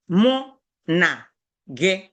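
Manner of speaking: "Mu... na... ge", a clear pause after each word. Shown as a demonstration. Teacher showing learners the phrase for you and I, word by word. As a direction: sound out "Mu na ge" piece by piece.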